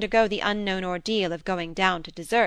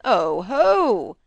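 louder, amused Oh, ho from a jovial lord; teasing; 6 dB louder than usual. Acted. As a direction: exclaim like a lord who spots a joke.

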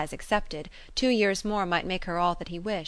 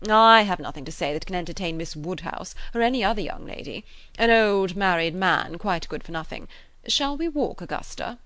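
sneering; 6 dB louder than usual. Acted. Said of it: "with a sort of sneering consciousness".

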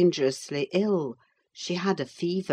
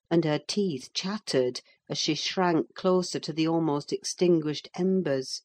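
ordinary delivery, nothing marked

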